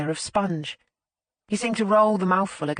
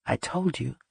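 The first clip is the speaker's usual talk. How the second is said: snorting; 4 semitones lower, 3 dB quieter than usual. A narrator's reading. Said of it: "Rory snorted".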